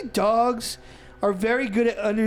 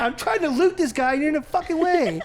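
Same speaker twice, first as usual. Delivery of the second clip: exasperated gamer rant; 6 semitones higher than usual. Retold or imitated. Retold ranting at game dog.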